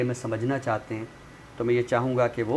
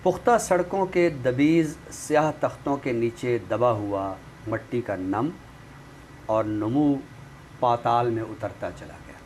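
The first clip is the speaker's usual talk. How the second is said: poem recitation. Acted. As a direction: recite each image with weight and pauses. Recites a nazm on the show.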